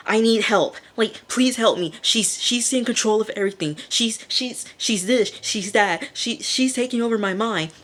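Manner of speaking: quick, high mock panic; freaking out. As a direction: act out a frantic cry for help. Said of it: "like, freaking out".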